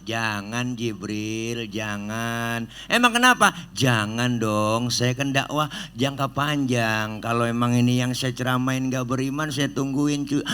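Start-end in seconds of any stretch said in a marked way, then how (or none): 0.0-2.7 soft, calm no to the angel; quiet, patient refusal; gentle refusal. Acted. 2.9-3.5 high, loud, impatient why; loud high exasperated question; irritated angel. Acted. Jibril asks why, irritated. 3.7-7.2 patient. Acted. Prophet explains patiently.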